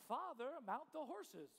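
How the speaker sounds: mock-formal, drawn-out address; stiff formality. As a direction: play a stiff child addressing father. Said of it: "It's so stiff".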